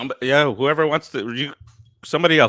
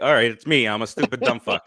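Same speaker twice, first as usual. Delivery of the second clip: exasperated, sarcastic self-blame; real irritation, giving up the argument; upset; 4 semitones lower than usual. Real, not acted. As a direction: snap into a huffy surrender. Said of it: "Look how upset he is".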